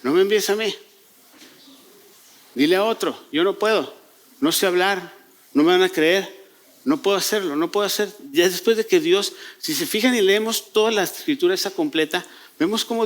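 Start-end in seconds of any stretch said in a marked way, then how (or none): 0.0-8.1 Moses begging harder. Retold or imitated. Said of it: "te lo voy a traducir".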